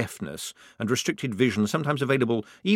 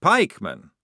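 mildly puzzled query, a little louder; 4 semitones higher, 6 dB louder than usual. A narrator's reading. Private questioning the officer's word, puzzled. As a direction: echo it in puzzlement. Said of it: "looking puzzled".

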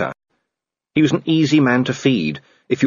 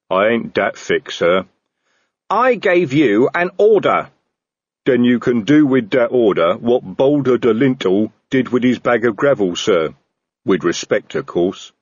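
troll voice; 3 dB louder than usual. Acted. Troll character voice.

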